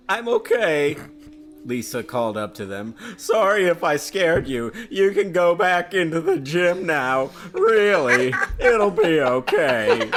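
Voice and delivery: put-on high, bright young girl voice; teen girl voice. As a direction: play the girl Lisa, a little shaken. Reads the girl's lines.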